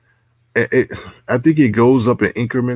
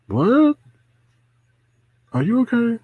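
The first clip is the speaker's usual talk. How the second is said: high, startled disbelief; shocked; 14 semitones higher than usual. Real, not acted. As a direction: jump up in pitch, stunned.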